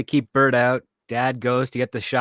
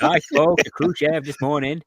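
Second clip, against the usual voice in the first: Kennedy impression; 4 semitones higher than usual. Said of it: "That's a weird Kennedy impersonation".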